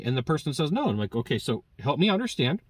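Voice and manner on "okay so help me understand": very calm. Retold or imitated. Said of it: "Very calm".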